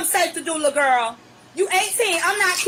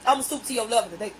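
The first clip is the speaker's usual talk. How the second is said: stooping low; 9 semitones lower, 5 dB quieter, faster than usual. Real, not acted. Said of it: "from the hood".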